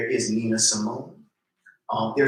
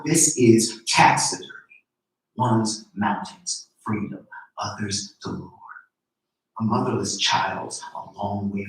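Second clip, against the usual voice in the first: poem reading; 3 dB louder than usual. Acted. Poet reading her poem to the audience, measured. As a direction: read each line as a spoken poem.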